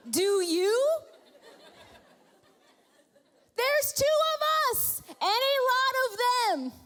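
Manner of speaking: high, loud, sarcastic protest with a laugh; mock the master with exasperation; sarcastic servant. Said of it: "The servant's like".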